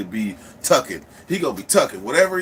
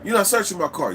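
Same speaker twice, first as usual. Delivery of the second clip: higher-pitched stalling protest; mock-indignant refusal; acted protest; 5 semitones higher than usual. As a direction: put up a showy objection. Acted protest to cover the check.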